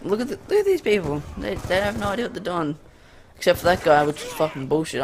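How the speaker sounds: exasperated gamer rant; raging. Real, not acted. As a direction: vent at bad teammates, heated. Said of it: "I raged kinda there".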